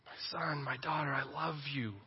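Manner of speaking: softly spoken fatherly love; hushed, loving reassurance with gentle pauses; tender Father God. Acted. Father God to son and daughter, softly tender. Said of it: "that is the voice that comes from this table".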